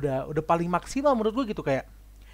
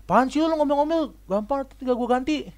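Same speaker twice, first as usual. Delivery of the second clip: mock annoyed retort; 9 semitones higher, 4 dB louder than usual. Rude person snapping back.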